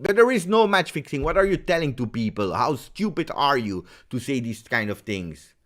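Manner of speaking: high, loud angry rebuttal; angry outburst. Real, not acted. Ranting at people who claim match fixing, real anger. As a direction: burst in indignantly, starting high and loud. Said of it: "This is what makes me angry".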